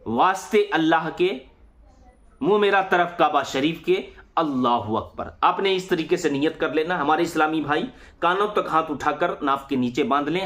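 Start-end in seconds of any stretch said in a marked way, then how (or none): 0.1-5.3 measured recitation with pauses between phrases; demonstrating a spoken prayer intention; niyat recitation. Shown as a demonstration. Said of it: "तो किस तरीके से जबान से नियत करेंगे".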